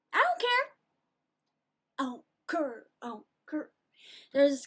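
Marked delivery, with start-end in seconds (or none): 0.1-0.7 imitating the dismissal. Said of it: "I love the way he says it". 2.0-3.7 lightly imitated flat dismissal; flat dismissive imitation. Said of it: "I love the way he says it".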